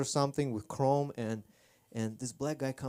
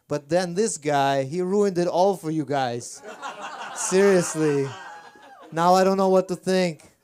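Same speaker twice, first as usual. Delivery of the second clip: mock outrage; 4 semitones higher, 9 dB louder than usual. Real, not acted. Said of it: "mock outrage at a heckler".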